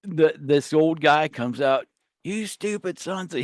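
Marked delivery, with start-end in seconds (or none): 2.2-3.4 mock old man yell. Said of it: "he's yelling at us".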